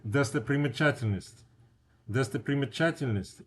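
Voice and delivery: "достопримечательность" said carefully with stress on "ча"; long Russian word demo. Shown as a demonstration. Teacher shows students a long Russian word. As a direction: sound out "достопримечательность" syllable by syllable. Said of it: "only one stress".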